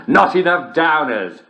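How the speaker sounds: slow, giggling delivery; can barely get the punchline out for laughing. Acted. Host giggling the punchline to his listeners.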